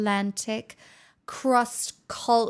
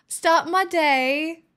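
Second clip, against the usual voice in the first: slow test; 3 semitones higher, slower than usual. Shown as a demonstration. Testing British wording on chat, slow and deliberate. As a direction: try the phrase out word by word. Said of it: "testing the phrase aloud".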